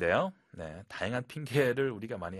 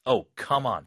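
frustrated; 5 dB louder, much slower than usual. Shown as a demonstration. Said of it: "좀 엄숙하게".

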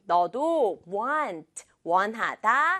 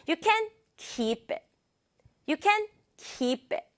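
You can keep it with can punched; slow rhythm read; stress on can; 6 semitones higher, much slower than usual. Shown as a demonstration. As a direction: hit can, keep it light. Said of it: "강조할 거 하나만".

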